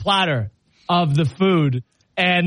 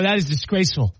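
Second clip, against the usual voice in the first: mock disdain. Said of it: "And I go".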